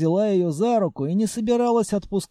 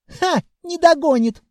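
put-on child voice; 12 semitones higher, 7 dB louder than usual. A narrator's reading. Child boasting.

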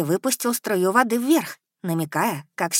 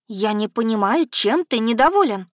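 indignant; 4 semitones higher, 3 dB louder than usual. Acted. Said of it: "возмутилась я".

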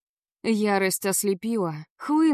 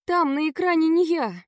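put-on pleading girl; 7 semitones higher than usual. A narrator's reading. Heroine pleads with Savva.

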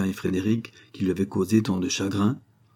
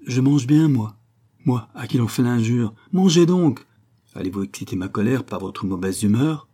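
angry scolding; 3 semitones higher, 4 dB louder than usual. Acted. The count scolds wife and daughter at dinner, loud and angry. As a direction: bark at them to eat. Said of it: "se fâcha".

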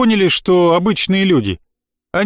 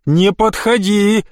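high slow fearful cry; high frightened yell; terrified; 5 semitones higher, slower than usual. Acted. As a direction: push it away with fear. Boy screaming at ghost.

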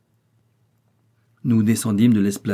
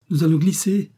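higher, alarmed call, only slightly louder; mild cry; 7 semitones higher, 3 dB louder than usual. A narrator's reading. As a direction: call out that they'll slip, held back. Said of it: "cria-t-il".

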